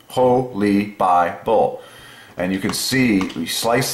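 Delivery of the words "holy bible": Holy Bible drawn out slowly, each syllable apart. Shown as a demonstration. Explaining the word to viewers, slow syllable by syllable. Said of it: "Okay, two syllables".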